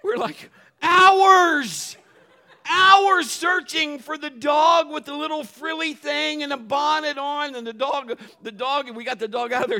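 loud, high laughing disbelief; dad laughing about hours spent searching for the dressed-up dog. Real, not acted. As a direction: laugh your way through the punchline. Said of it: "laughing punchline".

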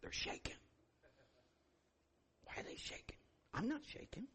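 hushed, secretive aside; puzzled whisper. Retold or imitated. Onlooker wondering at people shaking, acted puzzled whisper. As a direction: whisper it as a private thought while watching. Acts out private puzzled thoughts watching others.

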